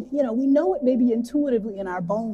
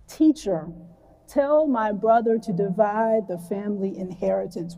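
unhurried reading of scripture to the congregation. Shown as a demonstration. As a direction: read the Gospel passage slowly and deliberately. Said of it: "I'm gonna read it pretty slowly".

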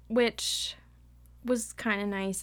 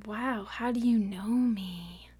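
slow, wide-eyed mock amazement; mock amazed; slower than usual. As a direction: gush it out slowly, mocking her. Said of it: "And Bella's like".

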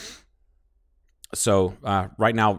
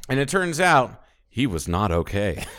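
narrator voiceover. Retold or imitated. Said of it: "Arrested Development voiceover".

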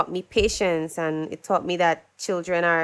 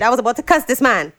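laughing; 3 semitones higher, faster than usual. Real, not acted. Laughing at own near mistake.

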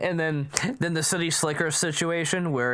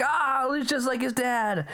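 high squeaky pitch; 10 semitones higher than usual. Retold or imitated. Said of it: "he gets the high pitch".

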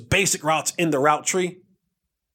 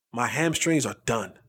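pained; 10 semitones lower, 4 dB quieter than usual. Retold or imitated. Injured teammate explains.

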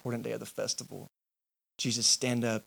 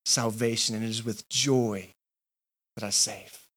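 slow, low, tender promise; joyful assurance; 3 semitones lower, slower than usual. Acted. Jesus telling the crowd he saves with joy, tender. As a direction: linger on joy, gently. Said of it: "Jesus is standing up and saying".

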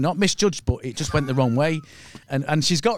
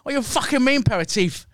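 angry retold quote in a higher-pitched half-Chinese, half-Cockney accent; mock Chinese-Cockney accent, pitched up; imitated Chinese-Cockney accent; 7 semitones higher than usual. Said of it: "that's half Chinese and half Cockney".

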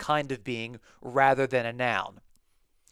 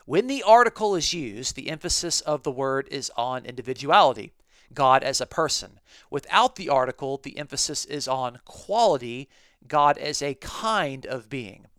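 quoting a commentary; 3 dB louder than usual. Retold or imitated. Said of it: "he says this".

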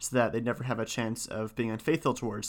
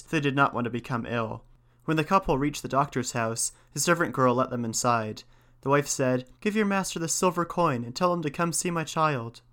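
measured storybook reading; story narration. A narrator's reading. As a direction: read a folk tale aloud with gentle emphasis. Reads the tale aloud.

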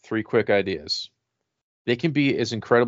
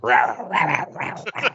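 panther; 5 semitones higher, slower than usual. Pretend. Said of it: "make the Panther sound effect".

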